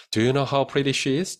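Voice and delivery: slow, clear question; slow model read. Shown as a demonstration. Teacher reads the model question slowly. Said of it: "확인해 볼 수 있겠죠".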